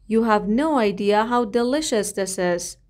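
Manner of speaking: drawn-out, careful phrase for repeating; slow model reading. Shown as a demonstration. Teacher modelling a sentence slowly for the class. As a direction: lay each word out slowly. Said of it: "teacher models the phrase".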